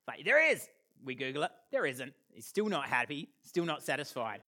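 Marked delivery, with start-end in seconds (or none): 0.2-0.7 higher, louder stubborn insistence; a child digging in, higher and louder; insistent kid. Retold or imitated. Son insisting to dad, high and louder.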